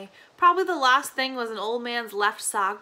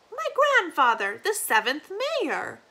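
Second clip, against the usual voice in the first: put-on old granny voice; 5 semitones higher than usual. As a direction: drift off like a confused grandmother.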